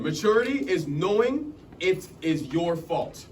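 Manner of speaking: "Maturity is knowing it is your fault" said slowly, each word weighed; slow and deliberate. Shown as a demonstration.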